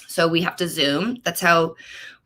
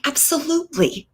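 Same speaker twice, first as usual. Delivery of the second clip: emphatic yes; 7 semitones higher, 3 dB quieter than usual. Retold or imitated. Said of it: "I'm like".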